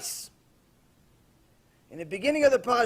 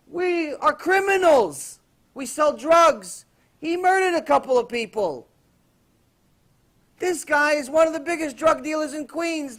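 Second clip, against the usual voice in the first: louder, higher, pressing cellmate's demand; gangster's rebuke; 4 semitones higher, 3 dB louder than usual. Retold or imitated. Gangster grilling the Wall Street man, loud. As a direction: hammer him with why he's here.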